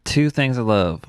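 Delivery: hammed-up Southern accent with pauses. Joining co-host's accent game, playful Southern accent. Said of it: "get behind a Southern accent".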